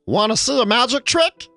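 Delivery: very high squeaky kobold; high-pitched little creature voice. Acted. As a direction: pipe it up like a tiny gleeful kobold. Kobold wizard quote.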